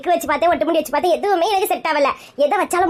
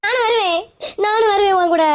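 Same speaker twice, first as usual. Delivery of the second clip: tearful, higher-pitched begging to come along; crying plea; 3 semitones higher than usual. Acted. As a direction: whimper that you want to come too. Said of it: "இப்படி அழுதுகிட்டே வந்தீங்கன்னா". (அழுதுகொண்டே கெஞ்சுதல்)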